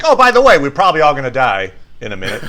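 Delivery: sardonic. Retold or imitated. Explaining Boromir's attitude with a sardonic quick throwaway. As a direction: toss off doom with a sardonic shrug. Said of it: "kind of sardonically like".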